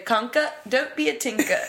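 mock British accent scolding a dog; attempted British accent. Students repeating the landlady's line in a British accent. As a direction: put on a British accent for the catchphrase. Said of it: "attempt their accent".

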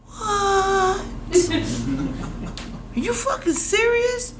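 high disbelieving cry breaking into a laugh; shocked disbelief. Retold or imitated. Niece hearing aunt's drunk story, high shocked laugh.

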